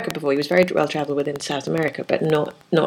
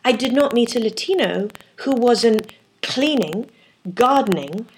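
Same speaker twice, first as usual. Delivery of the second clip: stammering, higher pitched disbelief; shocked Fernando; 4 semitones higher, slower than usual. Retold or imitated. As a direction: stutter out his outrage, pitched up. Fernando voiced listing jobs.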